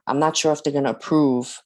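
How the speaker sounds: breathless, running out of air; short of breath mid-sentence. Real, not acted. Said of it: "I'm gonna have to catch my breath".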